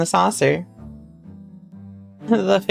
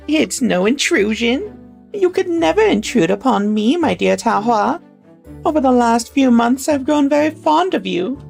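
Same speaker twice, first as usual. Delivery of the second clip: put-on old lady voice; 6 semitones higher than usual. Lady Whittier voiced in story.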